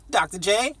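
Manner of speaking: excited host intro; hype greeting. Pretend. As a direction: pump up the audience like a host. Hyped show host greeting.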